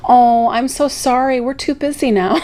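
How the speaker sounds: mock-sorry polite decline; sarcastic. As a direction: fake apology, secretly pleased. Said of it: "I'm being sarcastic".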